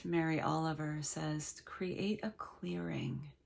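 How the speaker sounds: slow, unhurried meditation guide with long pauses; measured meditation voice, leaving space between phrases; guided meditation. Real, not acted. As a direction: gently lead listeners into letting go.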